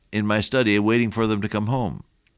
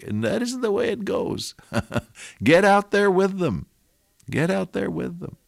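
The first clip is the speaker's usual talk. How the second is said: fervent exhortation; 5 semitones higher than usual. Acted. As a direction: push the pastor out the door with fire. Exhorting the pastor, preaching.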